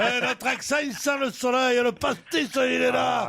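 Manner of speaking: hammed-up sunny Midi accent; mock southern French singsong. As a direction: play the boastful southerner with a thick Midi accent. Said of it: "votre accent".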